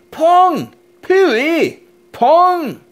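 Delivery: a hint of a snooty cat; disgusted cat. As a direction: wrinkle your nose at the smell. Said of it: "said Cat".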